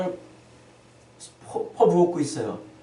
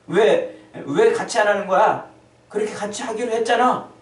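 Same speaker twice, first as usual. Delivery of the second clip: louder, higher annoyed complaint; complaining children; 4 semitones higher, 4 dB louder than usual. Acted. Children griping at playmates who wouldn't join, indignant and loud. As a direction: scold them like a sulking kid who was let down. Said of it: "따지고 있는 겁니다".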